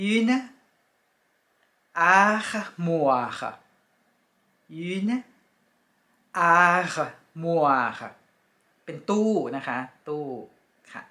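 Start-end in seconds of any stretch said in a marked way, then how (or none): 0.1-3.4 une armoire as "ar-mwar"; French pronunciation. Shown as a demonstration. Teacher naming the wardrobe, careful French. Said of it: "ก็จะอ่านว่า". 4.9-8.0 une armoire as "ar-mwar"; French pronunciation. Shown as a demonstration. Teacher naming the wardrobe, careful French. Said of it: "ก็จะอ่านว่า".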